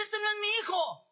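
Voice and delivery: a mother's anguished, teary protest; crying mother. Retold or imitated. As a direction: tearfully deny the baby is hers. Mother sees wrong baby.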